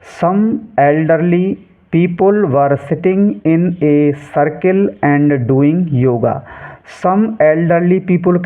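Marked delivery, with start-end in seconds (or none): 0.0-6.3 slow reading aloud. Shown as a demonstration. Teacher reading the sentence slowly before translating it. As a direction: stretch every English word out slowly.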